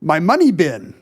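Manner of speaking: Scottish-accented cartoon miser; Scrooge McDuck. Shown as a demonstration. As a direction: practice phrase in a Scottish burr. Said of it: "The secret is to do Scrooge McDuck".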